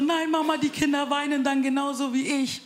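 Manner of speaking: put-on whiny child. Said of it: "Die ist dann so".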